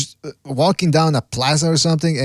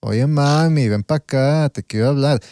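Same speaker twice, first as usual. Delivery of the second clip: put-on Puerto Rican accent, sounding worn out; tired Puerto Rican accent. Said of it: "Puerto Ricans always sound like they're tired".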